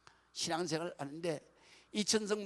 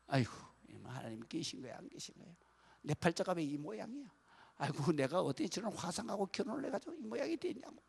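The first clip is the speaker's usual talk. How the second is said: complaining prayer. Retold or imitated. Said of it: "원망 기도를 한 거예요".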